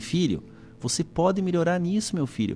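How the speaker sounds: tranquil, soft-spoken, calm, gentle delivery. Showing how a parent can correct a child, calm, gentle tone. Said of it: "com tranquilidade".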